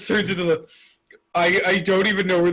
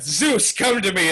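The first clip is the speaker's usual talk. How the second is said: commanding summons. Retold or imitated. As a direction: call the cloud with proud command. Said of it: "And then she's like".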